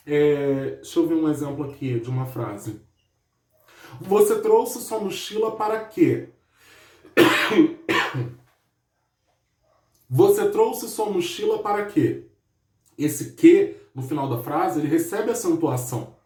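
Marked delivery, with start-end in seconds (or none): 4.0-6.3 full, stressed "quê" closing the question; "quê" as a strong stand-alone beat at the end; stressed final quê. Shown as a demonstration. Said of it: "nós temos um monossílabo tônico". 10.1-12.3 full, stressed "quê" closing the question; "quê" as a strong stand-alone beat at the end; stressed final quê. Shown as a demonstration. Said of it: "nós temos um monossílabo tônico".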